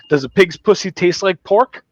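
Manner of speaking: imitated cocky bar question; botched catchphrase. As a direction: pose it slowly like a proud punchline. Acting out T J's botched line.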